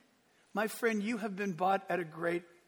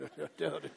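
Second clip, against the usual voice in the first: short, lower imitated chuckle; mock scoffing laugh; 5 semitones lower, 5 dB quieter than usual. Sarah laughing at the promise, mock scoffing laugh. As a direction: laugh it off in disbelief. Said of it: "And Sarah went".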